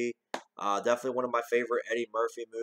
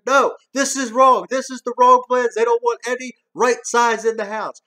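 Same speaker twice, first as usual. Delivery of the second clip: Axel Foley as inspector; 10 semitones higher, 9 dB louder than usual. Retold or imitated. Reviewer acting out the fake inspector, high and loud. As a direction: play the bossy building inspector, hammed up. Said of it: "Axel Foley, building inspector".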